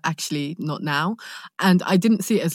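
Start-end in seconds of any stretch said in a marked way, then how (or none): 0.0-1.2 soft refusal. Retold or imitated. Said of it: "they were just sort of like".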